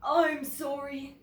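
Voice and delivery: slow, gentle apology; mean the sorry; apologetic polar bear. Acted. Polar bear apologizing to Bear, lightly voiced. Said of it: "he said".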